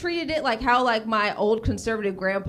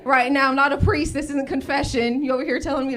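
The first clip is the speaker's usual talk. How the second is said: exasperated rant; 4 semitones higher, 4 dB louder than usual. Acted. Comic venting for her friends.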